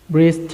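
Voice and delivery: "Breast" slowly, with a separate final t; final T pronounced. Shown as a demonstration. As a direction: show learners the t ending "Breast". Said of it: "ออกเสียง ท้ายที่". (ອອກສຽງ t ທ້າຍຄຳ "Breast")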